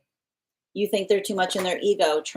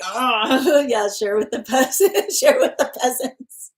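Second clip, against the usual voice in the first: haughty mock-royal tone, laughing; playful snooty voice, laughing; mock posh; 5 semitones higher, 4 dB louder, slower than usual. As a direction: lord it over the peasants in jest. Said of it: "I'm like".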